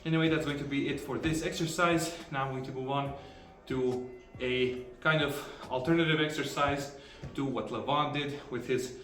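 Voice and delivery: breathless after a heavy set; panting between phrases; out of breath. Real, not acted. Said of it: "out, out of breath".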